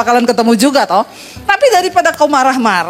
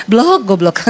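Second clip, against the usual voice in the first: smiling insult; 4 semitones lower, slower than usual. Retold or imitated. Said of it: "Dia tersenyum".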